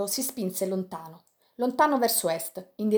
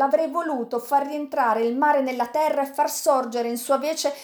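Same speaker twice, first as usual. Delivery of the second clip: higher, swelling passionate vow; passionate outburst; 3 semitones higher than usual. Acted. Sandokan telling Yanez of his despair, passionate outburst. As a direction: rage against fate, building.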